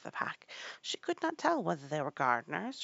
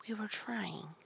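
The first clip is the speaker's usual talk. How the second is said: soft, higher, meek excuse; very humble tone; 4 semitones higher, 7 dB quieter, slower than usual. A narrator's reading. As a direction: offer a humble little excuse. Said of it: "in a very humble tone".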